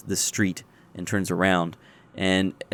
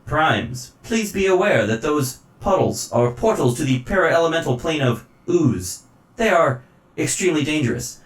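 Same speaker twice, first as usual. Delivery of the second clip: raised, robotic warning; mechanical voice; 6 semitones higher, 4 dB louder than usual. Acted. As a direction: stiff machine announcer. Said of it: "it says".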